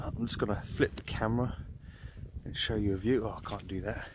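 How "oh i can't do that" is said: normal talking voice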